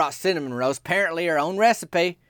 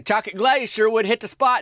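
higher hinting voice; Myron hinting; 7 semitones higher, 3 dB louder than usual. Retold or imitated. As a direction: drop a big hint about donuts. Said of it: "He just say".

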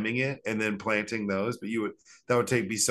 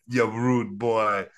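very slow, drawn-out mock Jamaican taunt; crazy Jamaican accent; 4 dB louder, much slower than usual. Castaway taunting rescuers very slowly in mock Jamaican. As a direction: drag each word like a rude boy. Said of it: "crazy Jamaican accent".

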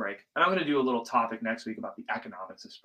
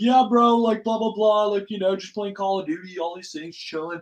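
lightly put-on bro chat, pitched up; chatting with friends; 7 semitones higher, 3 dB louder than usual. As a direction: rattle it off like chilling with a buddy. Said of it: "we talk to our friends, and we're like".

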